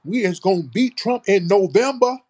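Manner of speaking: very high, loud mock FBA accent; hammed-up FBA accent, wailed out like a caricature; mock her FBA accent at a high pitch; exaggerated FBA accent. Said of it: "really talking with this F B A accent".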